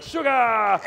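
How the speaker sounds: loud, high one-word kitchen shout; workers' shouted echo. Retold or imitated. Workers answering the German chef, shouted echo. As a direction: shout it back like obedient kitchen crew. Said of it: "And they're like".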